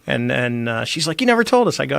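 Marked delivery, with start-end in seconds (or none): 1.2-1.8 high-pitched imitated complaint; pitched-up mock indignation; retold protest. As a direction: imitate a put-out mother-in-law. Mother-in-law's retold complaint.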